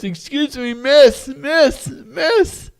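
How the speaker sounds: high, rising calls after a waitress; acted urgent hail across a restaurant; calling out. Diner calling waitress back in joke.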